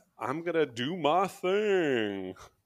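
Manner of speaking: high, slow goofy voice, thing drawn out. A podcast host quotes a musician's funny voice: imitating the musician's funny voice. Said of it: "you looked hilarious when you did that voice".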